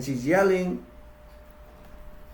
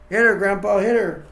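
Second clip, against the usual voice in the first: urging; 3 semitones higher, 6 dB louder than usual. Retold or imitated. Family eggs Grandpa on.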